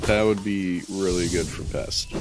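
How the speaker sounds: said through a laugh; laughing while saying it. Real, not acted. Laughing right after the call.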